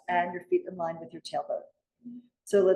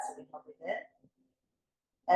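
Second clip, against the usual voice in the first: slow inhale cue; 3 semitones lower, 5 dB quieter, much slower than usual. Shown as a demonstration. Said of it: "So you can try that".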